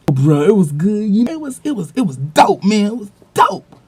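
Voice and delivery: peer's hood voice. Retold or imitated. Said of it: "this dude It's like".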